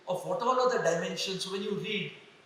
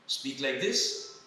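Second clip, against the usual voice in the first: slow demo; 5 semitones lower, much slower than usual. Shown as a demonstration. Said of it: "Do I have to".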